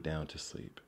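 soft unvoiced whisper. A narrator's reading. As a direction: whisper it like a bedtime hush. Animals settle down to sleep.

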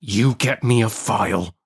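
convict giving orders in rustic dialect; threatening convict's order; menacing convict. Acted.

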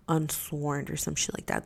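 unvoiced aside; whisper. Real, not acted. Sharing what she read about the cops, whispered. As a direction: drop to a secretive whisper.

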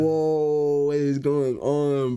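slow, stretched whoa of disbelief; surprised whoa. Retold or imitated. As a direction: drag it out, stunned. Realizing cameras appear.

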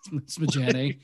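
Forrest Gump. Retold or imitated. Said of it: "and he's like".

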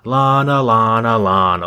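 mocking Lana's promo, name rising then falling. Mocking Lana's self-involved promo, lightly imitated. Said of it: "she keeps saying".

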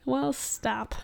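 hushed whisper. Real, not acted. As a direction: whisper back sharply.

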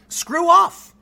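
loud, high mock shout; defiant shout. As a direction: bark it out defiantly. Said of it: "You could have said".

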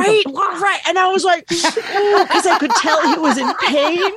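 laughing. Real, not acted. Laughing while telling mishap.

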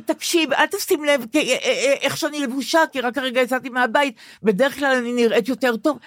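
trying too hard to break the ice; awkward nervous joking. Pretend. Patient nervously joking to the doctor, awkward and fumbling. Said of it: "ספרי לי, כאילו אני הרופא".

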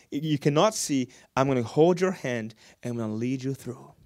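soft, gentle reassurance as the Lord; tender voice of God. Acted. Preacher voicing God's tender promise, softly. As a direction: softly promise to hold their hand.

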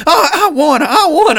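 high, loud mock-baby wail through laughter; whining little baby. Hunter begging his guide for the kudu, babyish mock wail. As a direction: whine it like a toddler demanding a treat. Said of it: "I turned into a little baby".

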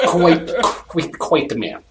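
laughing. Real, not acted. GM echoes with laughing emphasis.

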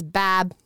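"Bab" with a bleating short a; goat bleat. Pretend. Woman mocking goat-faced cheater, bleating "Bab". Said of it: "I gotta say it like that".

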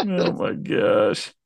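breathless slow laughing oh my gosh; can't get the words out for laughing; wheezing laugh. Real, not acted. Laughing hard at the friend's reaction, wheezing. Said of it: "I was laughing at that".

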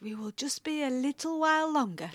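suppressed laugh. Retold or imitated. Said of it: "trying to stop himself from laughing".

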